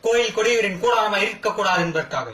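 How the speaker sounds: lifted, forceful justification; indignant declamation. Acted. Accused explains the temple disturbance to the court, indignant.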